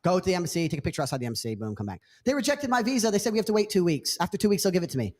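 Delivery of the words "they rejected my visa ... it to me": high, lightly voiced girl making excuses; girl's voice. Imitating the girl telling the man about the visa, higher. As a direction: sound let down for him.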